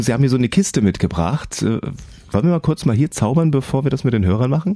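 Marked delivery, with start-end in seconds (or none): 2.3-4.7 excited. Real, not acted. Host eager to start trick.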